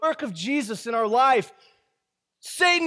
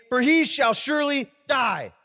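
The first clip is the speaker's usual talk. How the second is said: raised furious voice; angry shout. Acted. Enraged king shouting his verdict at his son. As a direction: shout the death sentence. Saul's rage at Jonathan.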